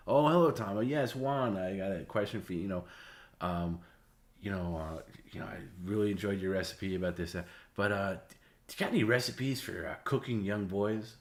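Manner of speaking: hint of a doddering old caller; mild old man put-on asking innocently. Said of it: "an old man voice".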